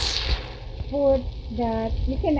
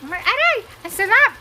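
high exclaims through a hot mouthful; talking while the tongue burns; mouth full of hot food; 9 semitones higher, faster than usual. Real, not acted. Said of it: "Aray ko, napaso ako".

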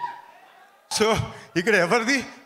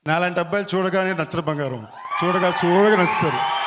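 film dialogue delivery; 3 dB louder than usual. Acted. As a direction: deliver the famous movie line for the crowd. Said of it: "connect అయ్యే dialogue చెప్తా".

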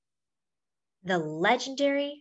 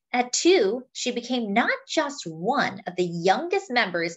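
put-on lively picture-book read to children; story narration; 3 semitones higher than usual. A narrator's reading. Reading a picture book about a singer to friends, lively storytelling. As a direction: tell it like a storyteller to a class.

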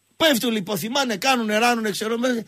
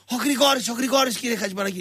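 unbothered, cigarette in mouth; 2 semitones higher than usual. Retold or imitated. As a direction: stretch the name lazily round a cigarette. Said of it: "με το τσιγάρο στο στόμα, σαν να μην συμβαίνει τίποτα".

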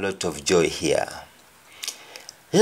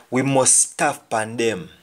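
Jamaican patois. Shown as a demonstration. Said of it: "we say".

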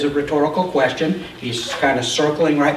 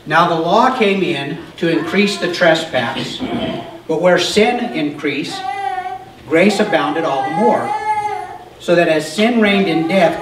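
scripture reading; 2 semitones higher than usual. Acted. Pastor reading Romans aloud to the group, measured. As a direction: read the verses to the congregation.

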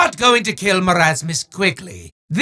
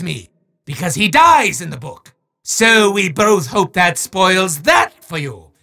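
booming sore-loser wizard, shouting his protests; a theatrical villain ranting at the player; hammy evil wizard, outraged then mocking; gloating wizard villain.

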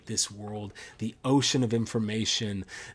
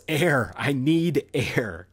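a desperate cry for air, higher and louder; desperate yell; 4 semitones higher, 5 dB louder, slower than usual. A narrator's reading. Young man yelling to Socrates for air, desperate shout. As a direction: shout it like you're gasping for air. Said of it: "And then the young man yells".

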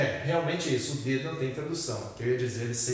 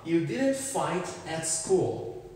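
slow, careful example read; slow model sentence; 2 semitones higher, much slower than usual. Shown as a demonstration. Teacher reading the next example to students, slow and deliberate. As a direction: read each word slowly for the learners.

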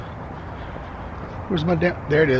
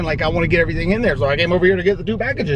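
rushing excitedly; much faster than usual. Real, not acted. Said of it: "Yo, Trooper, calm the fuck down".

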